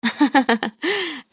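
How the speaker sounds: a quiet chuckle from the mother-in-law; quiet teasing chuckle; soft amused laugh. A narrator's reading. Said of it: "Nirmala हंसने लग जाती है".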